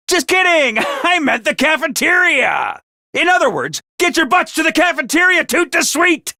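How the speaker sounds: cheeky rallying call; playful teasing. Acted. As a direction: tease them, then hurry them along. Teasing announcer ordering cadets.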